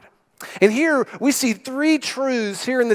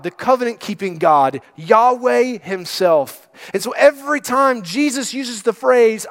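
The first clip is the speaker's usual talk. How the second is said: ordinary delivery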